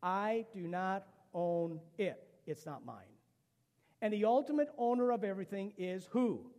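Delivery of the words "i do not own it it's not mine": slow recitation. Shown as a demonstration. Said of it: "Can you say that with me?".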